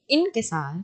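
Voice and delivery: انکسار said softly, ending without the ی; correct pronunciation. Shown as a demonstration. Teacher correcting the word for students, softly. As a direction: say انکسار, not انکساری, dropping the final ی. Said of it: "انکساری نہیں".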